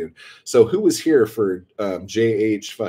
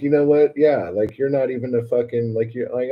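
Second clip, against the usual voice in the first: retold indignant comeback, raised pitch; pissed off; 5 semitones higher than usual. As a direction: argue back in a hammed-up huff. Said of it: "And I'm all pissed off".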